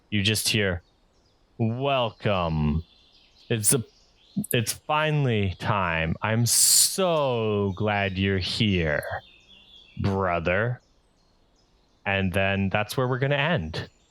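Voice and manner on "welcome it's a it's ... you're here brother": grand, slow, drawn-out, sinister villain voice. Narrating, a voice calls out from the end of the path, booming voice. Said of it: "in a booming voice".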